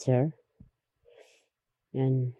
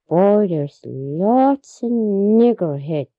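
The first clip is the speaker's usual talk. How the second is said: slow, drawn-out, raised quote; imitating the visitor, slow and louder; quoting the white man; 4 semitones higher, 5 dB louder, much slower than usual. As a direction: stretch every word like a tired traveler.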